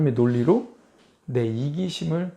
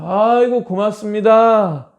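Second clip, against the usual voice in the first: sarcastic thanks; 5 semitones higher, 6 dB louder, slower than usual. Retold or imitated.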